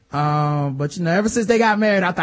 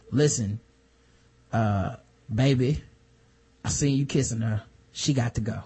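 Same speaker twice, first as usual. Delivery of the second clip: mock low coaxing; 8 semitones lower, 6 dB quieter than usual. Lysa sweet-talking her husband.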